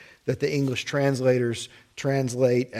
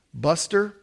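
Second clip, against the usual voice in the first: curt buster; 4 semitones higher than usual. Acted. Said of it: "better said as buster".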